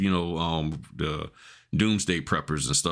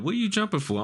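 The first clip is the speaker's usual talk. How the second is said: much higher mock voice of puzzled bystanders; puzzled onlookers; 13 semitones higher, faster than usual. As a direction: imitate people asking, pitched way up. Voicing people asking him.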